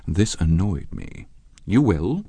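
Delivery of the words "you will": curt reply. Acted. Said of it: "I answered shortly".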